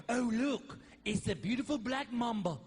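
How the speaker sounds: lightly put-on TV snake handler voice; mock snake-show host; snake guy. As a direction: admire a deadly snake like a wildlife host. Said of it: "My favorite guys are the snake guys".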